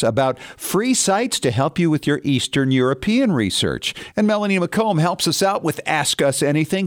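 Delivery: upbeat announcer read with lively pitch rises; polished promo delivery; radio show preview. Real, not acted. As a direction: tease the coming segments like a radio host. Recorded-style show preview and sponsor read.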